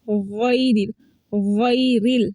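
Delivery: गैरिल with full "ghai"; heavy correct ghain. Shown as a demonstration. Teacher correcting the error, heavy "ghairil". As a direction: fill the mouth on गैरिल. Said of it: "इसको गै नहीं पढ़ना".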